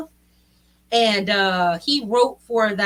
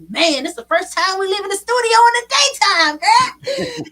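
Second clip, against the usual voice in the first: high, loud amazed quote climbing higher; mock amazement; 8 semitones higher, 7 dB louder than usual. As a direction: imitate their astonishment, pitch rising to a squeal. Acts out studio crew's amazed reaction.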